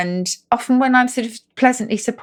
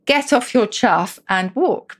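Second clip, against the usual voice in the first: mock telling off; 4 semitones higher, slower than usual. Shown as a demonstration. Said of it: "I also might say to you".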